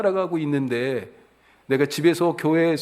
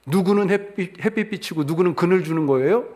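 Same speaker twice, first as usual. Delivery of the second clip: higher-pitched arguing in the mother's voice; acting out the mother's protest, high and pressing; indignant challenge; 5 semitones higher than usual. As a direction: demand an answer like a wronged mother. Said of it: "충분히 따질 만하죠".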